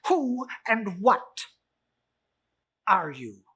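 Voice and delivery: high, loud nervous miser; stammering old Scrooge. Acted. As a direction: Scrooge stammers before the spirit.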